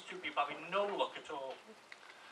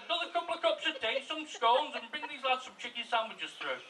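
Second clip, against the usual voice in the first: raised, higher voice easing off; calling out; 6 semitones higher than usual. Acted. Husband ordering tea and sandwiches from the kitchen, acted calling out. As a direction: call an order through to the next room. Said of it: "So he shouts through the kitchen".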